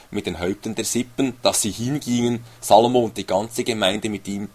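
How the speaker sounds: measured, solemn reading of the verse; steady formal Bible reading; scripture reading. Acted. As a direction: read it like scripture from the pulpit. Reads Bible passage aloud.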